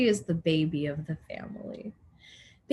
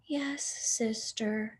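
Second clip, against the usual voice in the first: meek agreement; 7 dB quieter, slower than usual. Acted. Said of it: "said Baby".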